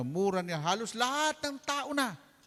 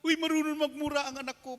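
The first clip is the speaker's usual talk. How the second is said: higher, louder gleeful boast; father delighted that his son swears, higher and louder; mock proud father; 8 semitones higher, 5 dB louder than usual. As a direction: brag about the kid with delight.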